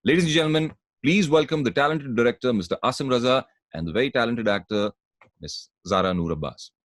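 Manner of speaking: slow, drawn-out host introduction; announcer introduction. Acted. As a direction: present the guests like a showman. (मेहमानों का धीमा, खिंचा हुआ ऐलान)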